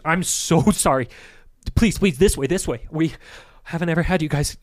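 grovel and hurry them along; flustered apology. Acted. Priest apologizing to an Arcane Order member, flustered and eager. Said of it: "surprise goes across his face".

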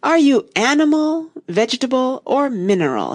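high start sinking into a yawn. A narrator's reading. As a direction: yawn through the question, pitch sliding down. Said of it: "yawning at every other word".

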